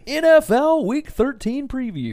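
high, slow showman announcement; game show host. Shown as a demonstration. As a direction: stretch it out like a quiz show host. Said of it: "you sound like a damn game show host".

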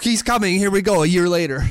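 high, excited outburst; high-pitched mock countdown excitement; excited hype. Sudden mock-announcing of the player's arrival.

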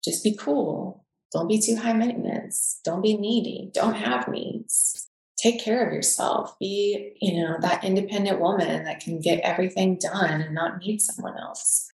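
light mock of a scolding inner voice, chanting rules; inner childhood voice. Woman voicing her childhood rules as a mild nagging inner voice. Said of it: "childhood beliefs of".

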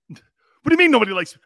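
loud, hurt, whiny protest; whiny Baker Mayfield. Retold or imitated. Host mocking himself as a sulking Baker Mayfield, loud and whiny. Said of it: "I sound like Baker Mayfield now".

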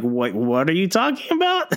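startled what, what are you talking; baffled shout. Retold or imitated. Host retells missing post-credit scene, baffled shout. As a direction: blurt it out in disbelief. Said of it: "I'm like".

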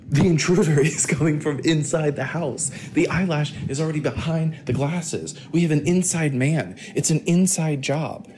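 true crime narrator voice; spooky podcast narration; dramatic crime narrator. Pretend.

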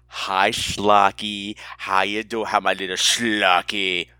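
low, slow doting coo; playful cooing greeting. Pretend. Host greeting a blogger fan, playful cooing. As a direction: coo slowly at a little pet.

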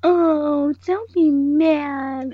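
high, slow, sobby pleading; mock sobby girl begging not to be mad. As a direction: draw it out in a fake sob. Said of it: "doing this weird girl sobby thing".

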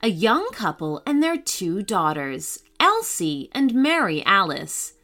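put-on lively storybook reading for kids; story narration. A narrator's reading. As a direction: read it like a bedtime adventure.

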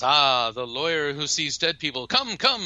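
high put-on voice, inviting. Host welcoming lawyer in, high put-on voice. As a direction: wave the guest in warmly.

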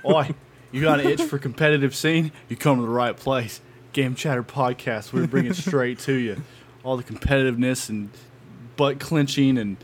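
put-on rowdy pirate accent; a hint of a pirate accent. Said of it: "You said I could use the pirate voice".

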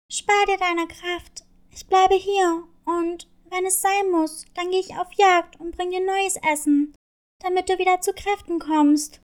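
lightly voiced caring kitten, slowing at first; little cat voice. Cat Kathy caring for wolf.

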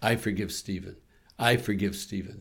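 soft, steady repeated affirmation; quiet forgiveness mantra. Shown as a demonstration. Pastor modeling self-forgiveness for listeners, softly repeated. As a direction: say it gently to yourself like a prayer. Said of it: "So I say".

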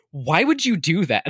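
shouted disbelief; exasperated shout. Retold or imitated. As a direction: yell it in disbelief. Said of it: "it's like".

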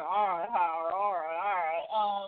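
slow, steady calming tone; a hint of a weary older brother; all right, Howard; lightly voiced calm Forrest. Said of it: "he's calmer".

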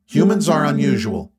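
an alien friend scolding, word by word; Rocky alien voice. Acted. Rocky speaks.

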